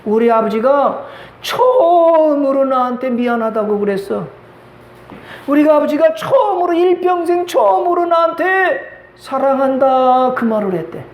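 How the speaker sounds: choked up, voice breaking with tears; husband weeping as he speaks; tearful husband. Retold or imitated. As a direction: tell it while crying, pitch climbing high. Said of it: "남편이 펑펑 울면서 그러더래".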